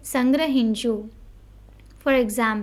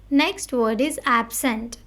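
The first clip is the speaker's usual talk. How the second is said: slow headword reading; slower than usual. Shown as a demonstration. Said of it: "We need to stress on the word".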